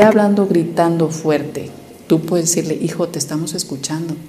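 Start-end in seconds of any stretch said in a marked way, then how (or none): 2.7-4.1 put-on soft, calm reassurance to a child; gentle reassurance. Parent calmly telling a shouting son he is heard, soft. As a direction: soothe him so he lowers his voice.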